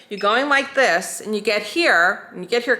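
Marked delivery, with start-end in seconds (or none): 1.2-2.3 slow, careful demo pace; slow move. Shown as a demonstration. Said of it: "kind of fast". 2.3-2.8 a bit quicker, as the wrong way; rushed move. Shown as a demonstration. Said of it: "kind of fast".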